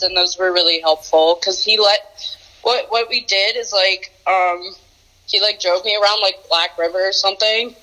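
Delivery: on speakerphone. Real, not acted. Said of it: "Put her on speaker".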